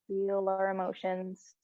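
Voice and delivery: unhurried, even-pitched meditation voice with long pauses; guided meditation. Real, not acted. Teacher settling a class curled up with closed eyes, guided meditation. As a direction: ease them gently inward, leaving space between phrases.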